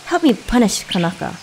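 high, urgent bird's plea; calling out. A narrator's reading. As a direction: call to a friend for help, pitched well up. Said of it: "so he called out".

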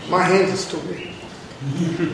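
very slow, even, unbothered; calm, slow reply. Retold or imitated. Calmly answering the agitated man in the restroom, slow and even. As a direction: say it slowly to calm him down. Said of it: "And I said".

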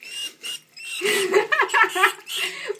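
high, loud burst of laughter; helpless laugh. Real, not acted. Mom laughing at her screaming dog, high and loud.

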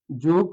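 যুগ cut off at the g, then a pause; teacher halting after যুগ; stopped closed syllable. Shown as a demonstration. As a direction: stop dead on the g of যুগ. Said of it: "থেমে গেলাম".

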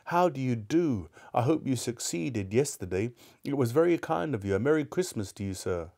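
put-on a kindly old man wishing well; reformed Scrooge. Scrooge greets the gentleman warmly.

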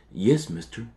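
soft, dazed murmur; hypnotised murmur. A narrator's reading. Harold under Chester's spell, soft dazed murmur. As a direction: give in under the cat's stare. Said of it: "urge to murmur".

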